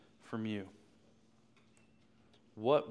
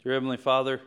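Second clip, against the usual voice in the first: earnest prayer in halting phrases with long pauses; heartfelt pulpit prayer, gaining force toward the end; public prayer; 3 semitones higher, 4 dB louder than usual. Real, not acted. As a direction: pray aloud for the congregation, pausing often. Leads the congregation in prayer.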